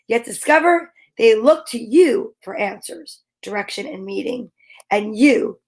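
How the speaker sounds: measured, earnest reading of a daily quote; solemn quote reading. Acted. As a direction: read it like a meaningful message. Reads the daily quote aloud.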